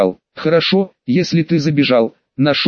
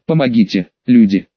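desperate call into the woods; shouting for help; 5 semitones lower than usual. Acted. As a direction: yell out for help. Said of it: "Старательно кричит он".

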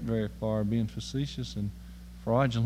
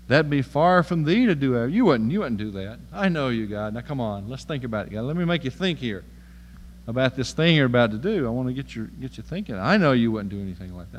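Abraham pleading with God; 2 semitones lower than usual. Retold or imitated. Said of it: "He said, God, you're a good guy".

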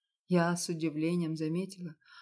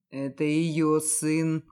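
slow, louder, each word pressed; stubborn insistence; 6 dB louder, much slower than usual. Acted. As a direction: dig in and refuse to budge. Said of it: "упорно настаивал Александр". (упорно, медленно, с нажимом)

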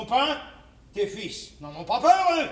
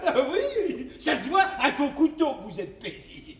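mocking laugh; 4 semitones higher than usual. Rit d'elle avec mépris.

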